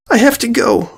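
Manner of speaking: sudden high yelp. A narrator's reading. Sweetie blurts it out as she bolts for the door. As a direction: blurt it out and flee. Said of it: "Sweetie yelped out suddenly".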